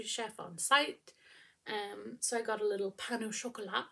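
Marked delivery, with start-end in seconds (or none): 2.9-3.9 "pain au chocolat" in a light French accent; a playful hint of French accent on "pain au chocolat". Shown as a demonstration. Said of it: "my French accent for you".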